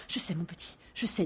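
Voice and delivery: soft, shaken mother's reply; a frightened mother, barely holding on; mère tremblante, voix douce; trembling mother. Acted. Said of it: "dit la mère en tremblant".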